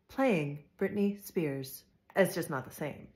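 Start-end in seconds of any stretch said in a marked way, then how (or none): 0.1-1.8 slow voice-assistant reply; Alexa voice. Retold or imitated. Imitating the smart speaker answering a music request, slowly. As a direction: read each word out slowly, like a smart speaker. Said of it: "Alexa will respond with".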